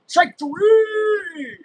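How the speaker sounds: high, loud drawn-out call; big stretched-out shout on the call; shouted strike call. Real, not acted. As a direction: belt it out like an umpire. Calling the strike while watching.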